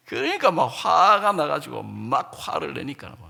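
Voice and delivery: ordinary delivery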